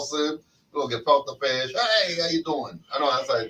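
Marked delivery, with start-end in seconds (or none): 1.7-2.8 a light Italian-American greeting, slower; a hint of a Brooklyn Italian tough guy; Italian accent. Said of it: "that's Italian".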